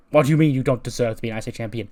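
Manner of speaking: fast, indignant comeback; incredulous retort. Acted. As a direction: fire the words back in disbelief. Kevin slaps Sami, challenges his words.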